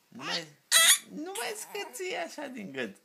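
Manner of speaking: father's gentle high coo. Real, not acted. Father soothes squeaking baby.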